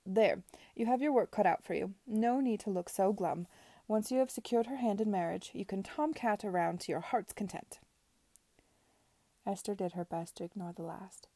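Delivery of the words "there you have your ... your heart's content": a lightly voiced imperious aunt, measured; Lady Denham lecturing Edward, haughty; stern aunt. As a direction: lay down the law to her nephew.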